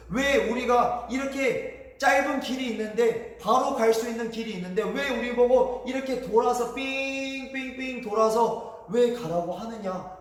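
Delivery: slightly acted grumbling challenge; storyteller voicing indignant complainers; mock complaining protest. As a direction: demand why, drawing out the winding detour. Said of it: "막 이렇게 따지기 시작하는 거예요".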